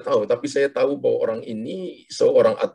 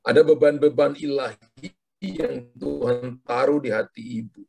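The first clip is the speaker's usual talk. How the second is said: prophetic declaration. Acted. Prophetic word over caller.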